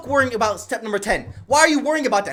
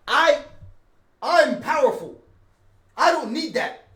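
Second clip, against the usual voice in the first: lightly dramatized anime hero, pitched higher; anime main character; 4 semitones higher than usual. Acted. Streamer voicing someone refusing temptation, as anime main character. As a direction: declare it like a higher-voiced anime protagonist. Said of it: "like the main character in an anime".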